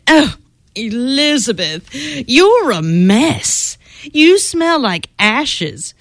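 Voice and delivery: lightly voiced haughty prince; snooty prince. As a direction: look down your nose at her. Prince Ronald scolds her.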